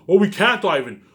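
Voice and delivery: sneering imitation of the people he blames; mocking quote. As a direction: parrot their excuse back, scornful. Mocks viewers' excuse in a quote.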